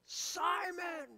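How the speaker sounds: high-pitched call across the yard. Retold or imitated. Preacher imitating calling his cat Simon.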